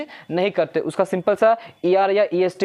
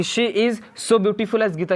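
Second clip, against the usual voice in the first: slow read-out; much slower than usual. Shown as a demonstration. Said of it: "पढ़िए".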